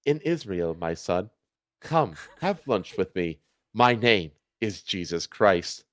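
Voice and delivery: low, soft and slow, a gentle Jesus; hushed, slow holy figure voice. Acted.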